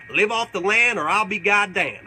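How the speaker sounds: slow proclaimed motto; drawn-out proud saying; old motto. Retold or imitated. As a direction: declare it like a backwoods creed. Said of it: "I used to have a saying".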